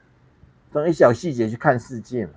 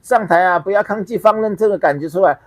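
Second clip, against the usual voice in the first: a lightly voiced, higher coaxing preacher; lama coaxing the crowd; 4 semitones higher than usual. Lama urging the audience to let feelings out, mildly mocking coaxing voice. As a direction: mimic the lama urging people not to resist. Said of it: "他就说".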